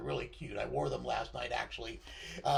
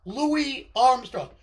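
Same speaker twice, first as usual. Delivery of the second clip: higher, louder, slow and drawn out; impression of a famous singer; 6 semitones higher, 9 dB louder, much slower than usual. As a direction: stretch the name slowly like the singer himself. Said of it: trying to do the singer's thing.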